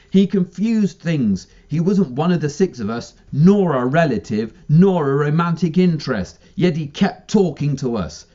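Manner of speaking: Phoebe voice. Acted. Phoebe character explaining.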